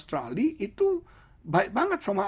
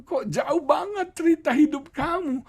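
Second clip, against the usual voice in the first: amazed; 13 semitones higher, 4 dB louder than usual. Retold or imitated. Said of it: "Saya bilang".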